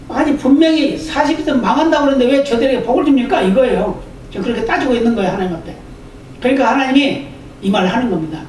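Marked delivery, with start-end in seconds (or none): 0.1-3.4 Jonah protesting, a touch of indignation; mock angry Jonah. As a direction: argue with God like a sulking prophet. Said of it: "요나가 화가 났어요". (하나님께 따지는 요나, 가볍게 화난 말투)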